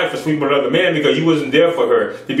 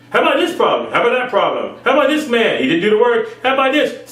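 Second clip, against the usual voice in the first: mock tempting thoughts; 7 semitones higher, faster than usual. Voicing tempting spirits.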